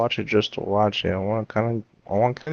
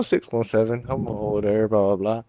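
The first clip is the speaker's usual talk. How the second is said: imitated police dispatch; 3 semitones lower than usual. Retelling the kid cop on dispatch, low radio patter. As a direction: mimic a cop calling in, trailing into filler. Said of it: "you hear him on dispatch".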